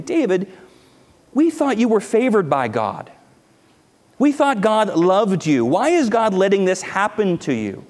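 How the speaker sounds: lightly voiced taunting enemies; mock taunt. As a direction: needle him like a taunting enemy.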